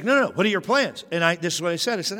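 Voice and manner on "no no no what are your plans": high insistent mom imitation; mom's voice. Son imitates mom pressing him again, high and insistent. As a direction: pitch up and push like mom.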